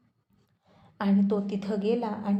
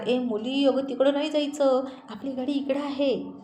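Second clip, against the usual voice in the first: calling after her; 4 semitones higher than usual. Acted. Rohit calls after wife walking off.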